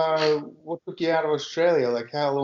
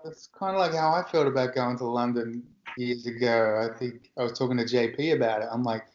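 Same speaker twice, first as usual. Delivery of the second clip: ordinary talk, nothing marked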